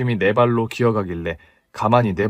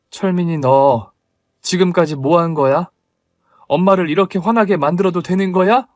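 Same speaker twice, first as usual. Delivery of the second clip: scolding mother; 4 semitones higher, 4 dB louder than usual. Acted.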